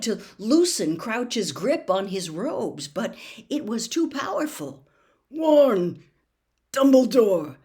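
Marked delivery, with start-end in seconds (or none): 5.3-7.6 louder, higher, forced-out words; urgent strained plea. A narrator's reading. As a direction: gasp a warning. Crouch pleading urgently.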